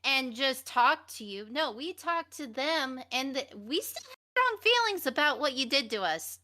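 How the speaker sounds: heated venting. Real, not acted. Venting at an absent former friend.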